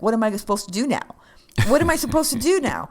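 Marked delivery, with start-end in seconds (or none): 1.7-2.9 higher, louder whiny repeat; hammed-up bored resident whining; exasperated old lady. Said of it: "she's like".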